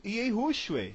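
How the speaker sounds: YEHUSHUA as yay-HOO-shway; English-style Yehushua, yay-HOO-shway; American misreading. Shown as a demonstration. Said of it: "ele vai ler".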